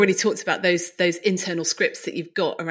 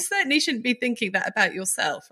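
higher, exaggerated dismay from a caring friend; mock shocked friend; 4 semitones higher than usual. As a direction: reassure with mock alarm. Friends reacting in retold scene.

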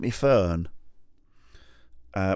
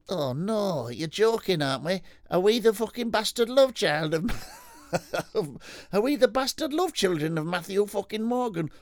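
excited rocker mate; 11 semitones higher than usual. Acted. Rocker telling his mate who they remind him of, high and excited. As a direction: gush like a rock dude who just had an idea. Acted dialogue continues.

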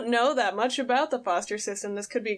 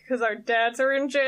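mock deadpan shout. Jughead's blunt reply to Veronica.

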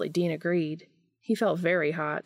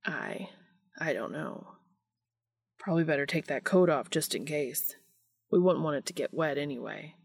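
hushed and flustered; 4 semitones lower than usual. A narrator's reading. Cass voiced, flustered, hushed.

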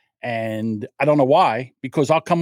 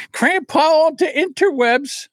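laughing; slower than usual. Real, not acted. Laughing self-mocking correction.

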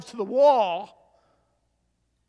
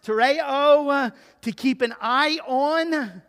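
usual speaking voice

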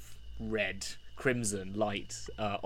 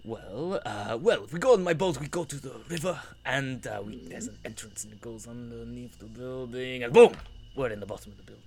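hammed-up bad Russian accent; scheming villain in a Russian accent; the speaker's Russian accent; 3 dB louder than usual. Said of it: "I'll try and do my Russian accent again".

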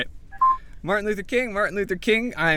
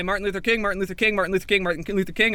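ordinary talk

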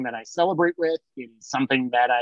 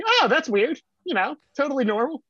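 fake innocence; 10 semitones higher than usual. Kid playing innocent.

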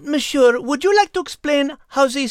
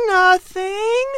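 innocently; 5 semitones higher than usual. Acted. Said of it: "she replied innocently".

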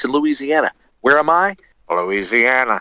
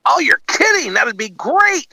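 mock excitement. Mock studio exec reaction.

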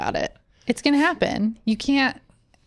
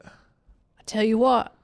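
slow, drawn-out Texan Hank Hill; lightly voiced Texas dad, slow; Hank Hill impression; 3 semitones higher, much slower than usual. Friend quoting Hank Hill from King of the Hill, slow and drawling. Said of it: "King of the Hill".

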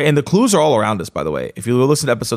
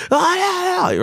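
mock rushed yeah; slower than usual. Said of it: "So I'd be like".

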